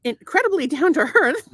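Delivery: affected Irish lilt, rising at the end; resume the praise in an Irish lilt; put-on accent. Carrying on the testimonial over interruptions, put-on Irish accent. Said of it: "tell me what kind of accent".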